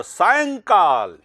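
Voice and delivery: loud, slow सायंकाल, each syllable held; drawn-out model pronunciation. Shown as a demonstration. Teacher dictates the correct spelling, सायंकाल slowly sounded out. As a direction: stretch सायंकाल slowly with a nasal यं. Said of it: "इसका उच्चारण ये है".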